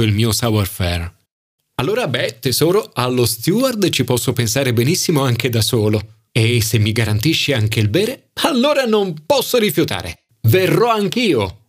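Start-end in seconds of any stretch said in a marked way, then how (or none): 1.8-11.6 gleeful surrender, slowing on the last words; campy thrilled acceptance; excited friend. Acted. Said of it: "urlò Momo preso dall'eccitazione".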